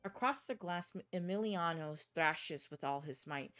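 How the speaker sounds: dark, measured horror narration; story narration. A narrator's reading. Narrator telling the player a horror scene. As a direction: read it like a grim thriller.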